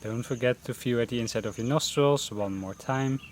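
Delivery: unhurried meditation guidance with long pauses; guided meditation. Real, not acted. Teacher leading beginners through a mindfulness breathing session, guided meditation voice. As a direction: guide them gently into breath focus, pausing between phrases.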